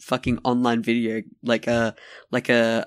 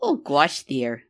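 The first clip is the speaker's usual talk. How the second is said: mock Midwestern fretting; playful Midwestern impression; Midwest accent; slower than usual. Shown as a demonstration. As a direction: put on a folksy Midwest accent. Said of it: "with your Midwest".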